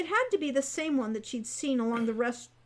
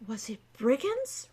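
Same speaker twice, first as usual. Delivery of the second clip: amazed. A narrator's reading. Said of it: "Wren asked in amazement".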